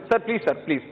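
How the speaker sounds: usual speaking voice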